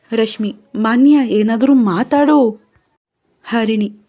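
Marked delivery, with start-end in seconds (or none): 0.8-2.6 louder, higher plea; pleading urgently. Acted. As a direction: beg her to speak. Rashmi pleads with crying Manya.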